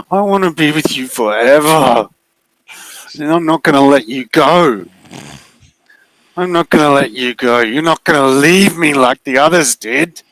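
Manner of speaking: high, insistent, clingy voice; possessive figure. Acted. The figure telling Maddie it will never let her go, clingy. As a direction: refuse to let her go, needy and firm.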